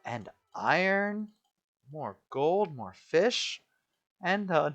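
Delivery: high, loud delighted gasp; thrilled at the find; excited. Real, not acted. Finds diamonds.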